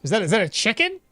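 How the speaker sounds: mock Cockney, tossed off for chat; Cockney accent. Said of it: "a Cockney accent?".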